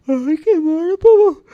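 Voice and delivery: put-on high, childlike simple lad voice; cheerful high-pitched lad; Charlie's voice. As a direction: play the big innocent lug, high and eager. Charlie yawning at window.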